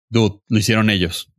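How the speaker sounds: ordinary talk, nothing marked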